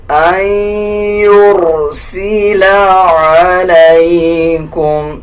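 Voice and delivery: عليكم with a true throat ain; correct ain. Shown as a demonstration. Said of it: "عین کا مخرج صحیح ادا کیا جائے". (عین کا صحیح مخرج)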